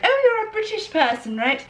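high-pitched gushing stranger; mock amazement. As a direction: squeal it like an impressed onlooker. Acted delighted shop people.

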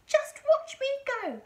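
very high, loud granny holler; triumphant call. A narrator's reading. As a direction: boast at full voice to those below. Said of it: "she called down to George".

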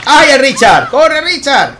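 real laughing excitement; laughing cheer. Real, not acted. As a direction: cheer him on through a laugh. Laughing at teammate running.

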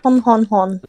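stereotypical French hon hon hon laugh; mock French laugh. Friend mocking Coy's French voice, cartoon French laugh. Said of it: "That just sounds French".

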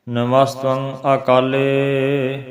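slow, drawn-out recitation; measured chanting with a long ending; scripture recitation. Shown as a demonstration. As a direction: recite slowly, holding the final vowel. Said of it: "ਇਹਨੂੰ ਇਸ ਤਰ੍ਹਾਂ ਬੋਲਣਾ ਹੈ".

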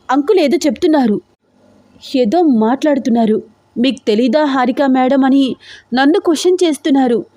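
tense, upset. Acted. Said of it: "చాలా చాలా tension పడుతూ అంది హారిక".

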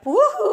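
playful lilting "cuckoo" whoop; mock loony woo-hoo; crazy-sign woo-hoo. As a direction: mimic a she's-crazy whistle in voice. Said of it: "that's the crazy sign".

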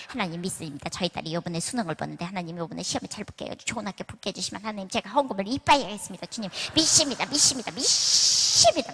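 mock pleading with God; imitating a mother praying for exam results, building up; fervent praying mother. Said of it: "막 이러면서 기도하는데".

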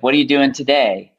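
American lightly trying British lilt; a little British lilt hanging on the end; British inflection. Shown as a demonstration. Expat showing his creeping British inflections, British lilt. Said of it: "But in British".

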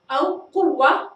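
قوة said with the end stopped as a plain ه, slow; paused ta. Shown as a demonstration. Teacher to students, pausal قوة: slow demo. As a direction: model the pausal form of قوة, drawn out. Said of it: "عندما قلنا دورة".

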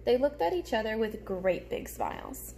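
put-on lively storybook reading for little kids; reading to children. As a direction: read it like story time for a class. Reads picture book aloud.

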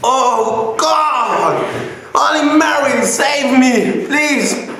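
high desperate pleading; begging for relief, mouth on fire; mouth burning from spicy food. Real, not acted. Begging after second chili pepper.

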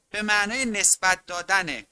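ordinary talk, nothing marked

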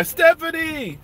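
high, slow, drawn-out bye; drawn-out cheery farewell; sing-song greeting. Real, not acted. Calling out greeting to viewer.

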